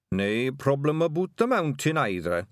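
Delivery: high, simple-minded Scottish voice; eager little Scottish pixie; daft Scottish pixie. Acted. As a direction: offer it helpfully as a daft pixie. Narrator voices Daft Woolly.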